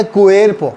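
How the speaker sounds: "क्वेर्पो" with a kwe glide and tapped r; Spanish reading. Shown as a demonstration. Teacher reading the word out for learners, Spanish reading. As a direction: model "क्वेर्पो", stretching kwe. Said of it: "यहाँ पढ़ेगा".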